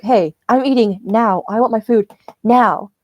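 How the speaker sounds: slow, emphatic mock demand; lightly acted indignation; demanding customer. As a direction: imitate an impatient old man, leaning on "now". Retold impatient old man's demand.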